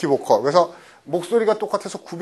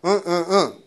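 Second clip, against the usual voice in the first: mumbled and vague; slower than usual. Shown as a demonstration. Evasive boy mumbling to a caller, vague. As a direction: slur the answer, dodging the name. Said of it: "얼버무리고 애매모호하게 발음하는 겁니다".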